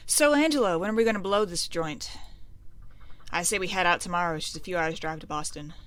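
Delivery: lightly voiced mobster planning a getaway; a hint of small-time gangster; mafia guy. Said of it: "these look like mafia guys".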